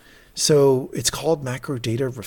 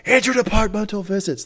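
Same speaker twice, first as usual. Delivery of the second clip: mock yell; 9 semitones higher than usual. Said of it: "Starting to yell".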